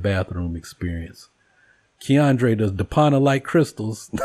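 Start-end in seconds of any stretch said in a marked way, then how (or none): 2.0-4.2 laughing call-out. Real, not acted. Calling out, laughing.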